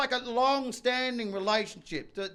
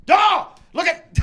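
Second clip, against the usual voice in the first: dopey wife voice; 11 semitones higher, slower than usual. Retold or imitated. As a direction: blurt it like a dim Arnie. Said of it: "she'll be like".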